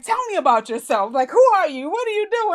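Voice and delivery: imitating an excited fan-girl star. Celebrity quizzing her excitedly.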